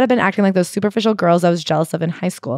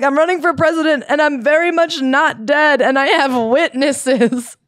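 slow, higher mock candidate boast; mock campaign voice; 5 semitones higher than usual. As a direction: play a proud candidate, lightly. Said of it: "It's funny to be like".

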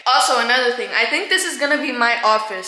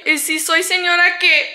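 louder high sassy comeback in Spanish; defiant sass; 5 semitones higher, 3 dB louder than usual. Real, not acted. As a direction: fire it back, so what.

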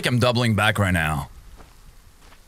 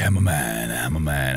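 much lower mock tough-guy voice; mock macho; 11 semitones lower than usual. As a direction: deepen the voice to fake courage. Psyching himself up.

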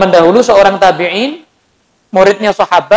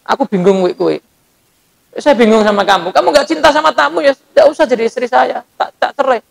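husband's calm reply; 3 semitones higher than usual. Retold or imitated. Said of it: "Katanya suaminya".

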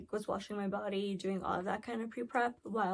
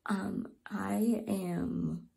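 breathless, panicky whisper; gasping for air between words; hyperventilating; much slower than usual. Real, not acted. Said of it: "I'm kind of having a panic attack right now".

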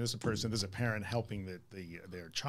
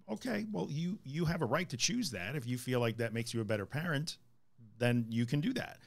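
smug; 2 semitones higher than usual. Acted. Therapist granting a parent the right to choose, smugly. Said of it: "He says it really smugly".

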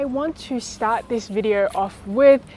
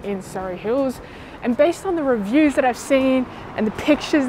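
muffled behind surgical mask; speaking with covered mouth; through a face mask; 2 semitones higher than usual. Real, not acted. Seen 0: Blue surgical mask covers her mouth whenever she is on screen.

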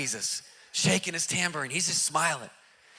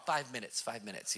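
hushed, soft and unhurried reassurance; calm him down quietly, no rush; cool and collected; 10 semitones lower, 14 dB quieter than usual. Retold or imitated. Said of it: "He's just cool and collected".

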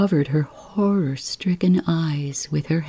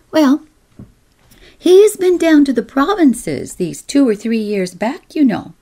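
whining voice; 9 semitones higher, 5 dB louder than usual. Acted. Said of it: "the whining voice went on".

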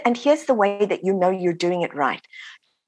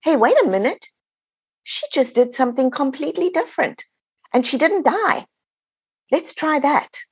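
higher, surprised family members catching on; astonished family; 6 semitones higher than usual. Retold or imitated. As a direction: play the stunned relatives realising it worked. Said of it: "everybody else in the family is going".

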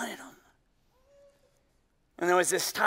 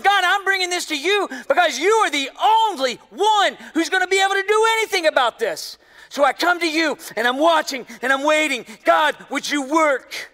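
Hannah's pleading prayer; 5 semitones higher, 5 dB louder than usual. Retold or imitated. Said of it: "she was coming to the Lord going".

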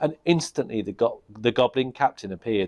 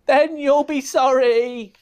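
high, slow witch warning; witch threat; 13 semitones higher, 5 dB louder, slower than usual. Acted.

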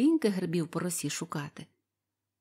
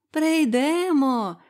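happy call; 7 semitones higher, 7 dB louder, much slower than usual. A narrator's reading. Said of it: "гукнули задоволено мавки".

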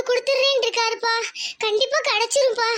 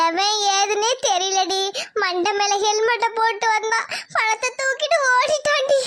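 tearful account rising to a wail; crying. Acted. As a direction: tell it brokenly, ending in sobs. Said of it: "வந்து உட்கார்ந்து அழுதுட்டு இருக்கு". (அழுகையுடன் புலம்பும் குரல்)

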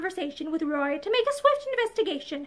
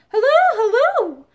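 calling out loudly toward the house; a big hallooing call across the farm; 5 semitones higher, 8 dB louder than usual. A narrator's reading. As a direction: hail the house from the yard. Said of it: "called loudly".

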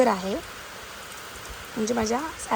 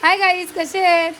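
put-on higher and louder hi guys, कसे आहेत, pushing the child; insistent prompt; 6 semitones higher, 7 dB louder than usual. Shown as a demonstration. Mother impatiently feeds her daughter the greeting, higher and louder. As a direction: urge her to say it now. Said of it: "बोल लवकर".

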